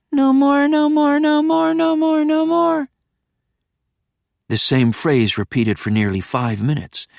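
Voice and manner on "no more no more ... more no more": put-on higher, small pleading child; childlike. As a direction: beg like a frightened little kid. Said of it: "My voice again sounding so small, childlike".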